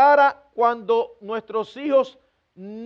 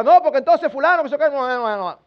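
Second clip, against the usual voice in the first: muddled talk; 2 semitones higher than usual. Retold or imitated. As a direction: trail off into a confused string of no's. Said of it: "hablaba de una manera enredada".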